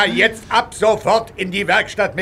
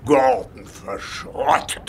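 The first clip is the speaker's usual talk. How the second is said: incredulous; 3 semitones lower, slower than usual. Acted. Boss repeats in disbelief.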